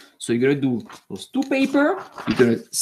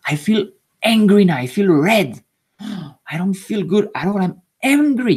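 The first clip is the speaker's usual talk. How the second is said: mock angry. Shown as a demonstration. Teacher showing pupils how to name anger, mock angry. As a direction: show the kids how to voice anger. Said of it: "So you say like".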